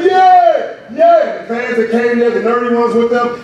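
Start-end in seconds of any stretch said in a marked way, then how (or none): 0.0-1.2 high, loud drawn-out cheer; mock victory scream, high and long; imitated screaming cheer. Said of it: "they were screaming".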